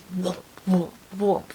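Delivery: throbbing whoop noises, evenly spaced; imitated pounding. Teller shows hungover head pounding, pulsing whoops. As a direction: mimic a pulsing hangover head. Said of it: "Just pounding headache".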